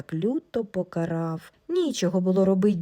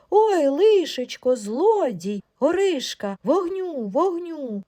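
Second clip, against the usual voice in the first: panicked outcry; 7 semitones higher, slower than usual. Acted. Wife wakes and screams at a stranger, panicked cry. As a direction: shriek for help at a thief in the dark. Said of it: "як наробить репету".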